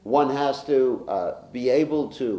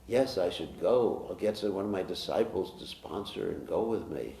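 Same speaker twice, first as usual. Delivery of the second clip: laughing self-mockery; 2 semitones lower, 4 dB quieter than usual. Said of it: "'cause I was contemplating it".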